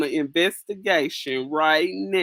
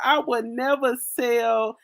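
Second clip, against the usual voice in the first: mock prim vow; 6 semitones higher than usual. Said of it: "women ... talking about".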